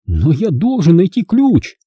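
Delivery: high, insistent cry of despair; frustrated, pleading high voice; desperate exclamation. A narrator's reading. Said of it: "в отчаянии воскликнул он".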